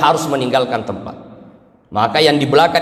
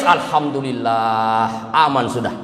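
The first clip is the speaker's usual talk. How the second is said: sly relieved husband; 3 semitones lower, slower than usual. Acted. Husband relieved wife died.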